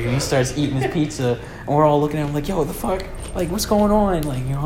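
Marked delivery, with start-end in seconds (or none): 2.5-4.2 incredulous outburst. Retold or imitated. Friends staring at Peter eating.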